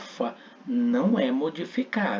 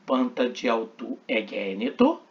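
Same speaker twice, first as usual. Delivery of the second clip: ordinary delivery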